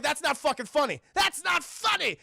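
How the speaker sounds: high, hammed-up protest; cartoonish offended outburst; mock indignation. Joker protesting at being laughed at.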